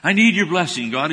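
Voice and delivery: cling to God and beg; begging. Retold or imitated. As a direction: Jacob wrestling God, begging for a blessing. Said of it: "He's begging, he's begging for it".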